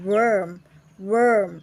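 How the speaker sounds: "worm" with an er vowel, not or; pronunciation demo. Shown as a demonstration. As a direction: say "worm" as wer closed with m. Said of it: "เติม M เข้าไปก็เป็น".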